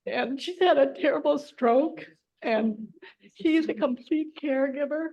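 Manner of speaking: real upset, voice lifted with tears; fighting back tears. Real, not acted. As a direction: push on through the urge to cry. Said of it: "Oh, I can't even speak. I'm so sad for her".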